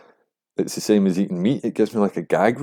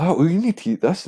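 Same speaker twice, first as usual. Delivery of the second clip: much higher nagging mimicry; mocking pushy person, higher still; 9 semitones higher than usual. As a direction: push the food insistently, pitch climbing. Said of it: "saying, like".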